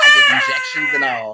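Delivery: high squealing laughter while talking; shrieking laugh. Real, not acted.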